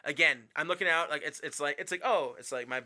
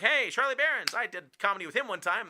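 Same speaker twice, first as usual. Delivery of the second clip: bragging to LA people, voice pitched up high and loud; mock name-dropping brag; 7 semitones higher, 4 dB louder than usual. Comedian mimics his own brag to LA crowd, mock boastful. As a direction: oversell the famous-friend drop, half joking. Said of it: "me, I'm like".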